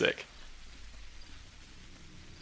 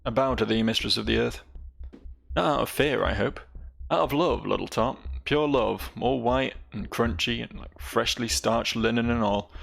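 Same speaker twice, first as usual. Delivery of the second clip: lightly voiced devoted gang boss, sincere; hint of a repentant cutthroat swearing loyalty; crime boss Grief. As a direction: read Grief's loyal pledge, a touch of swagger. Voices Grief's dialogue lines.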